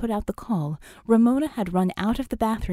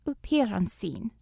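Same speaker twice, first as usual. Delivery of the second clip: put-on crisp Russian accent. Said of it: "came the crisp Russian voice".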